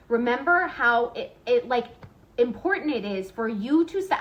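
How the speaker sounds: stumbling over words; stuttering, losing the thread. Real, not acted. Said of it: "I'm, like, literally stuttering over my words".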